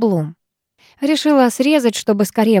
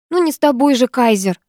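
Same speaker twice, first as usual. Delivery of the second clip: язвительно; 4 semitones higher than usual. Acted. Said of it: "язвительно ответила я".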